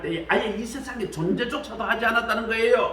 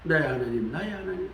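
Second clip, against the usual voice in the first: an anguished call that swells up; crying out to God; 2 semitones higher than usual. Retold or imitated. Preacher voicing Jesus on the cross, crying out. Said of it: "십자가에서 막 외쳤다니까".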